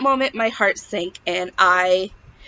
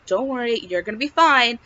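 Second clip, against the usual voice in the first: calming reassurance. Retold or imitated. Imagined midwife calming a worried pregnant patient, gently reassuring. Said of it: "I knew she'd calm me down".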